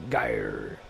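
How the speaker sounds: Geir dropped very low, a booming gah-yer; deep, growly pronunciation of Geir. Shown as a demonstration. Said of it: "I don't wanna sound British".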